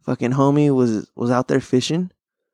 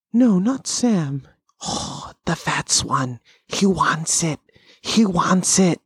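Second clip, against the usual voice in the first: stretched-out creature voice, breaking into whisper; imitated scheming Smeagol; 3 semitones higher, much slower than usual. Creature turning Frodo against Sam, scheming imitation. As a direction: put on a scheming little creature voice.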